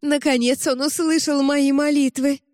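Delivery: high, rapturous cry of relief; joyful exclaim. A narrator's reading. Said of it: "воскликнула мать".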